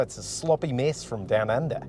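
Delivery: badly faked Australian sliding into New Zealand; New Zealand-leaning Australian accent. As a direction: aim for Australian, land nearer New Zealand. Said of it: "that's a little bit more New Zealand".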